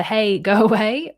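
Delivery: hammed-up go away; mock brush-off. Shown as a demonstration. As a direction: shoo them off with a laugh. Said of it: "Is it the".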